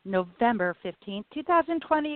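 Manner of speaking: raspy voice. Real, not acted. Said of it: "a little bit especially raspy voice".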